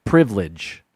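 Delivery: "Privilege" as priv-lidge, no second i; "Privilege" said privlidge, two beats; two-syllable privilege. Shown as a demonstration. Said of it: "Two syllables".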